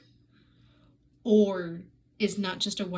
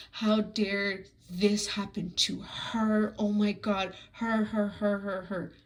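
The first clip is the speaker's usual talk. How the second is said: slow, mocking how-dare-you; mock outrage; slower than usual. Reviewer mocking the heroine's self-pity, slow sneering mimicry.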